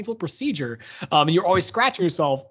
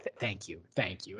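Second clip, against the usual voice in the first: low, soft deadpan thank you; 10 semitones lower, 14 dB quieter than usual. Retold or imitated. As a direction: mutter thanks dryly. Leia's dry thanks retold.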